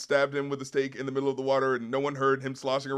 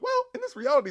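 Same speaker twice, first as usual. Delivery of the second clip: raised quote voice; faster than usual. Retold or imitated.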